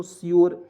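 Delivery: श्योर said as "shyor", one syllable; श्योर as a clear "shyor"; pronounced sure. Shown as a demonstration. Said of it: "श्योर हो जाएगा दोस्तों".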